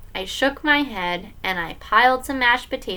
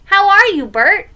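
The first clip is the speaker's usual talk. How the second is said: high, loud play-acting dad; higher, playful put-on question; playing along; 9 semitones higher, 7 dB louder than usual. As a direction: humour a child with a puppet-style greeting. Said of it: "playing along with him".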